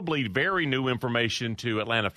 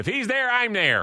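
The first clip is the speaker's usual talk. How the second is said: very high-pitched put-on voice; 10 semitones higher, 4 dB louder than usual. Retelling a rumor he heard, quoting Nick: Nick impression. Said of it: "Is that your Nick impression?".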